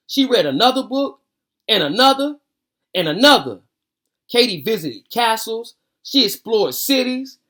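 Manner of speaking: lively read-aloud storytelling voice; story narration. Acted. Reading a picture book aloud to viewers, lively storytelling.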